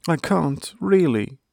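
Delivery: high-pitched mild groan. A narrator's reading. Young hedgehog stuck in his blanket, lightly groaning. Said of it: "groaned Thumper".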